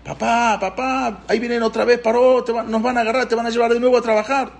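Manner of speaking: high-pitched imitation of scared kids; children's frightened wailing. Children at home warning their father Paró is coming, mock frightened wail. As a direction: plead to dad like an alarmed child, without sobs. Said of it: "empezaron a llorar".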